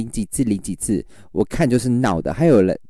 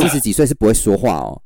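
retold mocking scold; 3 dB louder than usual. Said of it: "我说".

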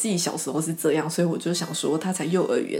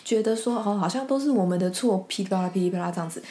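quoting teacher rant; 3 semitones higher than usual. Retold or imitated. Long quote of teacher's rant.

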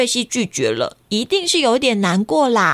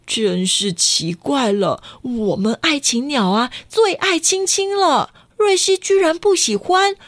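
worried father. Acted. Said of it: "爸爸很担心地说".

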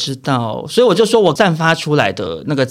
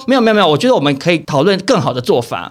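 quick reasonable tone; faster than usual. Retold or imitated. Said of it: "我说：".

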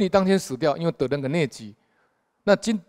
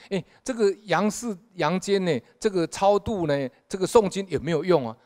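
curious questioning; 7 semitones higher than usual. Retold or imitated. Dead man questions ghost official.

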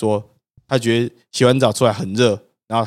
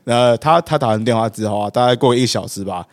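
usual speaking voice

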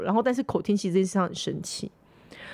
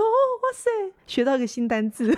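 mock amazement; 4 semitones higher than usual. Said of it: "我说".

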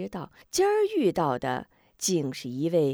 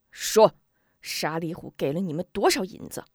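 angry demand. Acted. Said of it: "怒目圆睁".

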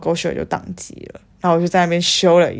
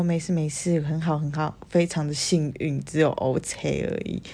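soft brush-off; 6 dB quieter than usual. Retold or imitated. Brushing off injury.

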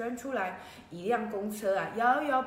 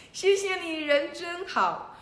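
high, loud, slowing gratitude; gushing thanks; 8 semitones higher, 4 dB louder, slower than usual. Acted. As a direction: beam up at the god. (高兴地大声道谢)

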